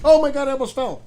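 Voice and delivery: startled gasp as chair tips; nearly falling off the chair; losing balance. Real, not acted. I almost fell.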